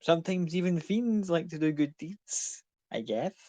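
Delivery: casual, noncommittal admission with a verbal shrug; offhand shrug. Acted. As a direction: shrug it off in character, rising then dropping away. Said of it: "just kind of shrugs a bit".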